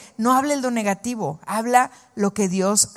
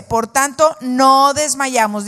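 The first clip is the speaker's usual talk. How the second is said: louder, slow proclaiming; forceful proclamation; 3 semitones higher, 6 dB louder, slower than usual. Acted. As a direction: declare it boldly to the congregation. Repite el versículo con fuerza. (proclamación fuerte y lenta)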